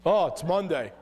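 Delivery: mock moaning morning complaints, half laughing; grumbling self-talk. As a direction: whine lightly about the day. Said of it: "What do you say in the morning?".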